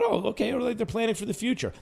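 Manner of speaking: breezy Boston accent, mocking the GM. Host mocks Gettleman's shrug in Boston accent. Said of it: "am I imitating, uh, Gettleman's Boston accent".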